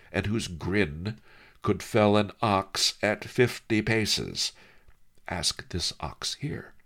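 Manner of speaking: put-on a sly old scholar savouring the joke; lightly voiced old Master Li, amused; old sage Master Li. Li Kao teasing in story.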